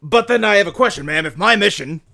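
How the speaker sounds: emphatic military questioning with pauses; earnest soldier dog. Acted. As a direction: press a superior respectfully but firmly. Plays Rex questioning his creator.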